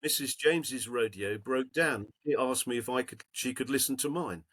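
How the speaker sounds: lightly voiced old lady's letter, read aloud; reading an old woman's thank-you note to the group.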